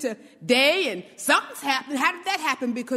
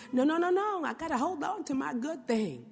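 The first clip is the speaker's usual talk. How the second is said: mock clinging. Voicing someone clinging to good.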